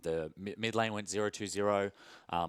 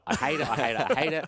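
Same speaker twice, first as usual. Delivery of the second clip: rising frustration, getting louder; frustrated rant; 4 semitones higher, 4 dB louder than usual. Real, not acted. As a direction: vent it like a fed-up player. Exaggerated rant about MF support.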